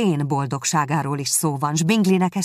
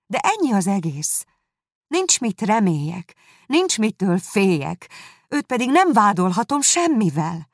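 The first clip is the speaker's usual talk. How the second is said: higher, insistent protest; exclaiming, flustered; 5 semitones higher, 4 dB louder than usual. A narrator's reading. Jane assuring her sister she'll recover, exclaiming. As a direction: cry out to convince her, voice lifted. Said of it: "kiáltott fel Jane kissé elpirulva".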